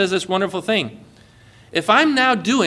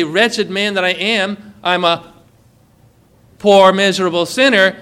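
slow despairing lament. Retold or imitated. Congregation lamenting their sin, slow and heavy. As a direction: lament being a wretched sinner. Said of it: "while we say".

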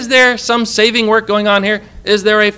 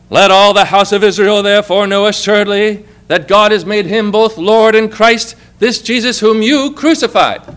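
a bold apostle's sermon, louder and raised; Peter preaching; 2 semitones higher, 4 dB louder than usual. Retold or imitated. Peter ending his sermon to the Jews, bold preaching. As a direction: proclaim it like Peter at Pentecost. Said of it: "ends his sermon to the Jews ... like this".

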